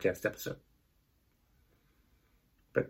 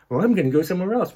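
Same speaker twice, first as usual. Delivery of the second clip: mocking the angry mother; 6 semitones higher, 7 dB louder, much faster than usual. Mocking the customer's threat.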